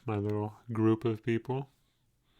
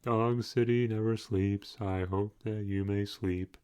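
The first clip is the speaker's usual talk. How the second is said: Bukowski voice; slower than usual. Acted. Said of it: "as I revert to Bukowski's voice".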